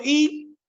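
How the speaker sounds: single word y said sharply as a whole utterance; y 单独说出，短促有力; demo word y. Shown as a demonstration. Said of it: "Entonces yo digo".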